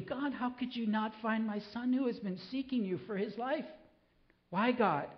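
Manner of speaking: high, pleading lament to God; anguished cry. Retold or imitated. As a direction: cry out to God for your son. Father's plea for his son.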